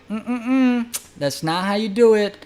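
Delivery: high, disapproving hum into a correction; truffle guy correcting. Retold or imitated. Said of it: "my truffle guy's like".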